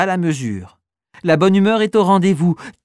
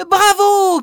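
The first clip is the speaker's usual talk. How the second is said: even higher, louder bravo; cheering louder; 5 dB louder than usual. Acted. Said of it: "crient les enfants".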